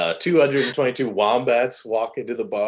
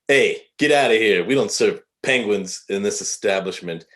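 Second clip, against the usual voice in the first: bartender's order. Acted. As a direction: raise your voice to throw them out. Bartender throws penguins out.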